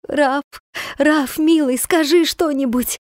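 высоко, с плачем в голосе; умоляй мужа сквозь слёзы; рыдающая мольба. Acted. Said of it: "зарыдала". (жена рыдает над очнувшимся мужем, умоляя)

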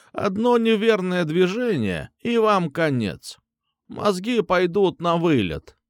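strange trembling voice. A narrator's reading. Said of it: "странным дрожащим голосом".

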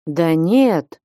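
mildly timid, drawn-back denial; a touch of meek hesitation. A narrator's reading. Василий Борисыч answers Флёнушка's accusation, timidly. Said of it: "робко отвечал Василий Борисыч".

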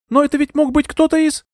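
put-on high young woman's voice, faltering; a dazed young lady explaining; young heroine. A narrator's reading. Euphemia explains herself to Bertram, high and faltering.

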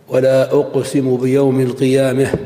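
القيامة ending tilted toward e, qiyameh; imala. Shown as a demonstration. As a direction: bend the last a of القيامة toward e. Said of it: "ويجوز فيها الإمالة".

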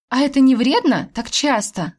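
lightly alarmed, lifted voice; mild worry. A narrator's reading. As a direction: ask with a touch of concern. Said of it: "забеспокоилась я".

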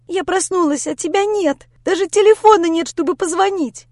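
high, loud tearful complaint; sobbing outburst. Acted. Lera sobbing at Grisha after waking alone, distraught. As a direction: fire the words at him while sobbing. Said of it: "продолжала рыдать и палить в меня словами".

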